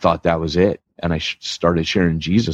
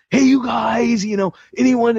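high, loud eager call to the group; super excited; 3 dB louder than usual. Retold or imitated. Youth leader inviting prayer requests, excited high call. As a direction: call out brightly, hoping someone shares. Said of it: "super ex-, excited".

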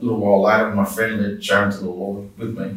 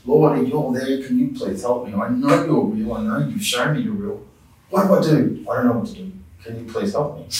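higher, insistent plea to God; retold pleading prayer; 3 semitones higher than usual. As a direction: plead with the Lord for help, re-enacted. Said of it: "And I just thought".

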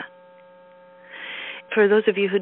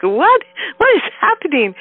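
high, baffled retold outburst; higher-pitched incredulous questioning; mock bewilderment; 8 semitones higher, 5 dB louder than usual. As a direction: act out being utterly puzzled. Retells her bewilderment at the weekend.

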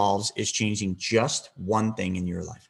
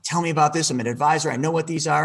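higher, louder eager demand; bursting to hear it from Brent; excited; 5 semitones higher, 4 dB louder than usual. Retold or imitated. Eager advisor pressing Brent, excited and higher. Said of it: "I was all excited".

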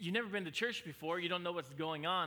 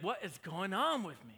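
higher and louder, laughing at the silliness; mock bewildered churchgoer; 4 semitones higher, 5 dB louder than usual. Pastor to congregation, mock confused churchgoer laughing. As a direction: play a confused visitor half laughing at themselves. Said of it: "and you're like".

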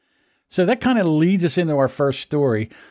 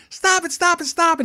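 mock pleading. Husband being beaten.

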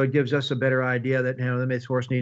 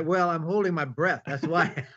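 laughing; 3 semitones higher than usual. Real, not acted. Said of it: "well, are you laughing?".

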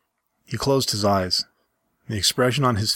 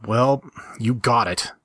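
slow, understated annoyance; slow mild anger; slower than usual. Acted. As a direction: drag it out, mildly cross. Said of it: "I said angrily".

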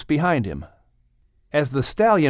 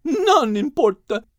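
urgent mare; 12 semitones higher than usual. A narrator's reading. The mare urging Max to sing to the stallion. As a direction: urge him to hurry.

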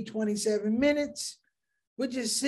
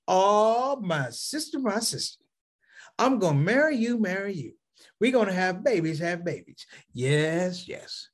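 say it twice. Retold or imitated. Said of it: "whatever they say, you gotta say it twice".

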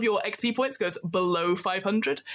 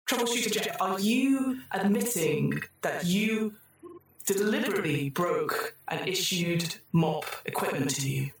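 the computer rewarding the troubleshooters, in a chirpy synthetic voice; cheery computer voice. Acted. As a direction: sing out the congratulations like a cheerful machine.

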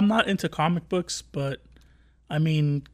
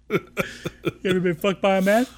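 tough cop voice; 4 semitones higher, 3 dB louder than usual. Retold or imitated. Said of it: "He's like".

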